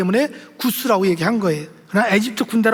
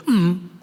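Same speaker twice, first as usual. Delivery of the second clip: mock a composed, stifled groan; closed-mouth hum instead of a scream; dignified restrained groan; 5 semitones lower, much slower than usual. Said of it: "인격적으로".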